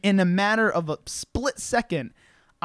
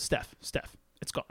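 whispered mock horror, barely any voice; hushed retold shock; 11 dB quieter than usual. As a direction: imitate a friend's stunned whisper. Second friend breaking bad news.

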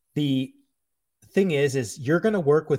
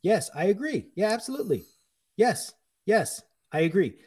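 higher-pitched, unruffled agreeing; staying calm; 4 semitones higher than usual. Acted. Cook placating a manager who is screaming at him, calm. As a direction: keep calmly agreeing, no fight in it. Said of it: "staying calm".

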